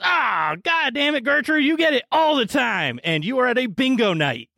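put-on whiny old losers groaning; lightly voiced grumpy old crowd; groaning old folks. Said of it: "everyone goes".

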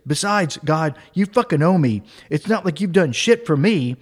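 mildly indignant mock prayer; retold anger. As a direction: scold God with a touch of anger. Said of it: "He pivots his anger totally".

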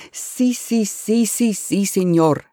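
put-on eager rapid Spanish-accented si si; Spanish-accented agreement. Eustacio's accented voice.

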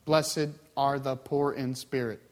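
low, slow, disconnected recitation; detached precept. Acted. Distant listener hears only a rule, detached precept. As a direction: recite it slowly like a bullet statement. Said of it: "hearing the teachings like a precept".

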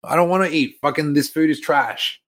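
acted petulant refusal. Son refusing his stepmom's food, mock petulance. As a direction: act out a kid refusing dinner.

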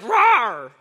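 half-hearted mock roar; weak lion roar. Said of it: "That was a very weak lion roar".

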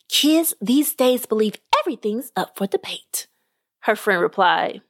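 lively storyteller reading a podcast tale; measured read-aloud narration; story narration. Acted. Reads a short story aloud.

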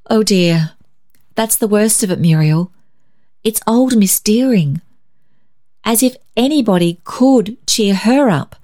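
put-on mildly choked, worried girl; a touch of a catch in the throat. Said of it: "choked Barbara".

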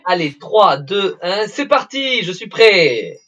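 rising, punchy countdown, then launch; excited countdown. Pretend. Mock countdown before the question.

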